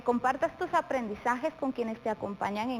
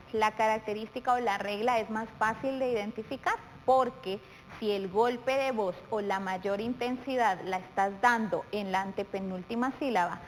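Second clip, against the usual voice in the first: ordinary delivery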